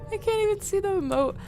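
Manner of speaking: very high, loud and fast; panicked squeal. Real, not acted. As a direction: blurt it out in a nervous rush. Panicked high rushed complaint.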